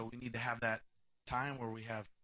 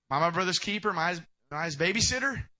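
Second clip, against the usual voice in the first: Cain's sarcastic retort, lightly voiced; mock attitude; 2 semitones higher, 5 dB louder, faster than usual. Cain deflecting God's question with mild sarcasm. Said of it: "I'm gonna bust attitude".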